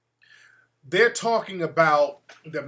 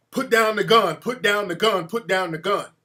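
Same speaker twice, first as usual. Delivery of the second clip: mild retold shout, easing off; half-strength mock police command; imitated police yelling; 3 semitones higher, 5 dB louder than usual. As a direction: repeat it like cops calling out orders.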